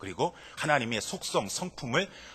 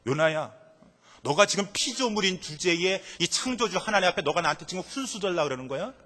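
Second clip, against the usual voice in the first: stern rebuke; 4 semitones higher, 5 dB louder than usual. Pretend. God scolding Jonah for arguing back, stern. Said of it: "라고 하는 그런".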